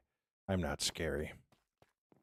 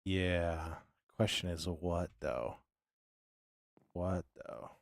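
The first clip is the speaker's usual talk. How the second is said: talking through hiccups; hiccuping between words; slower than usual. Real, not acted. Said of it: "Not the hiccups".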